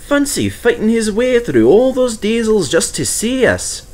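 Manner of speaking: high, eager little engine voice; Percy's voice. Acted. Percy reminding Douglas, in a high eager voice. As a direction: play the small cheeky tank engine.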